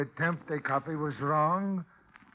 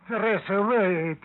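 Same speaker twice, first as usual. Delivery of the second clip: louder, pleading call; calling after her; 6 semitones higher, 8 dB louder than usual. Acted. Father calling out after his departing daughter, loud and pleading. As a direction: stop her before she goes.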